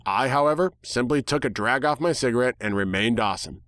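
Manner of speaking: ordinary delivery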